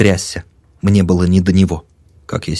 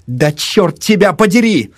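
slow, higher-pitched outburst; exasperated curse; 9 semitones higher, slower than usual. A narrator's reading. Shaken Hauk curses his friend, exasperated. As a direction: draw the curse out in anguish.

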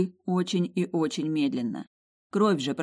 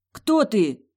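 alarmed call; 5 semitones higher, 7 dB louder than usual. Acted. Heroine calls out to voice.

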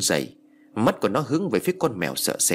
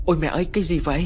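crying out; 6 semitones higher, faster than usual. Acted. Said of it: "bật khóc rồi nói".

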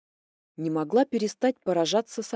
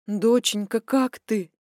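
worried mother; 2 semitones higher, 3 dB louder, slower than usual. Acted. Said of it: "её встревоженный голос".

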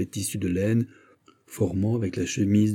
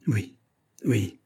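muffled growl. Acted. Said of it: "gronda-t-elle sourdement".

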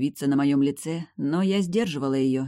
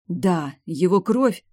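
shuddering disgust; 4 semitones higher, 6 dB louder, slower than usual. A narrator's reading. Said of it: "содрогнулась от воспоминаний".

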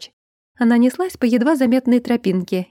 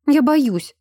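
frightened shout; 6 semitones higher than usual. A narrator's reading. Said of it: "выкрикнула Эльза".

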